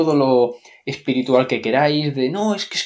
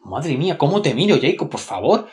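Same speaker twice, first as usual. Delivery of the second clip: mocking Bella's reply; 2 semitones lower, 3 dB quieter than usual. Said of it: "es respuesta tras respuesta de decir".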